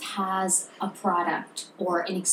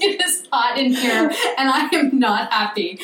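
exasperated complaint; 3 semitones higher, 4 dB louder than usual. Retold or imitated. Retold complaint while stuck in bathroom.

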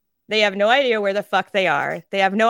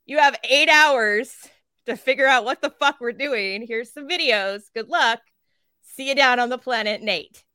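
briefing officer; 4 semitones higher than usual. Retold or imitated. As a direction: toss off the briefing like it's nothing. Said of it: "So then they're like".

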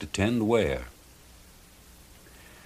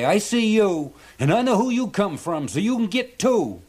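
much higher, louder fisherman voice; annoyed fisherman; 12 semitones higher, 4 dB louder than usual. A narrator's reading. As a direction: shoo her off, fed up. Charlie shooing the mermaid.

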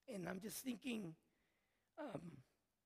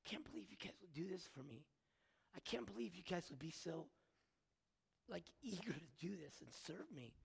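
hushed quote; 6 dB quieter than usual. Retold or imitated. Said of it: "He's like".

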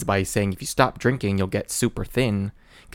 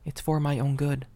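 mock pleading outburst; 4 semitones higher than usual. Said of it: "It's like".

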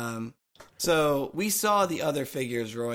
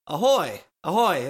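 sailor's ahoy call; 3 semitones higher, 5 dB louder than usual. Acted. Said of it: "That's what they used to say".

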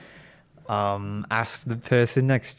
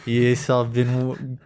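bad Australian accent. Guest posing as Tom Holland in a bad Australian accent. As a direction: play a clumsy fake Australian. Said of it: "your accent is bloody ridiculous".

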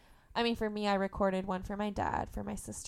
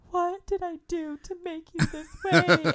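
mock anguished mom, higher and louder; imitating mom; 9 semitones higher, 7 dB louder than usual. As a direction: whine it like a despairing mother. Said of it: "she would just be like".

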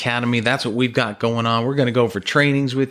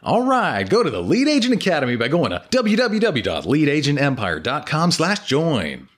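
grindhouse trailer. Shown as a demonstration. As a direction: drag it out like a trailer voice-over. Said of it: "can you say that U R L with the movie announcer voice".

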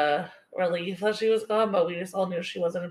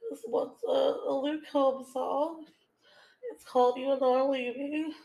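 teary; 5 semitones higher than usual. Real, not acted. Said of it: "I can't even get through this one".

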